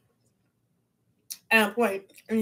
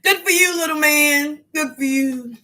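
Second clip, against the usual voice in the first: mock praise; 5 semitones higher, 5 dB louder than usual. Real, not acted.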